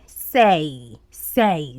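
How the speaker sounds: "Say" repeated alone as the ending of fiancé; syllable demonstration. Shown as a demonstration. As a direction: isolate each "Say" with a falling tone. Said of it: "it is fiancé".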